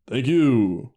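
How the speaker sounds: imitated customer-service thank-you; mock customer-service politeness. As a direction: put on a polite service-worker voice. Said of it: "he's got a service voice too".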